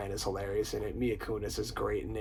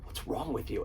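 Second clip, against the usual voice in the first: soft imitated concern, slightly raised pitch; Owen Wilson; 3 semitones higher, 7 dB quieter than usual. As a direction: ask it softly, imitating a laid-back friend. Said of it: "Owen Wilson just goes like".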